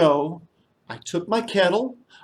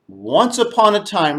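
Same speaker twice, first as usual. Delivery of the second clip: storytelling opener; 3 dB louder than usual. Shown as a demonstration. Storyteller modelling the opening for the children to repeat. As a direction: start the tale grandly. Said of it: "Let's all say that together".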